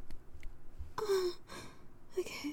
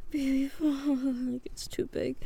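slow whisper; slower than usual. Real, not acted.

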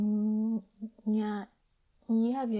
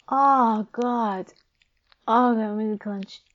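loud, higher ecstatic cries; 4 semitones higher, 12 dB louder than usual. Acted. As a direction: cry out loud. Climax cries.

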